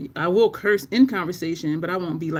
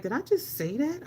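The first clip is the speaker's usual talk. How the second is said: higher, softer incredulous question; retold disbelief; 7 semitones higher, 5 dB quieter than usual. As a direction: replay your own stunned reaction. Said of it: "I'm still kinda in disbelief".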